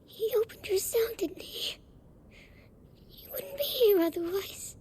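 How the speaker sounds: hopeful hushed whisper. Acted. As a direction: whisper it, clinging to hope. Frightened girl hiding.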